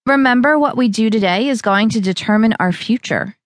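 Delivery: rally her for the day; Val's voice. Acted. Val's motivational line.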